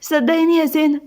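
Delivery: understated grieving appeal; sorrowful anguish. Acted. Husband sharing wife's grief over lost son, sorrowful. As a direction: console her through your own hurt. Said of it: "سيف بحزن وقهر عليها".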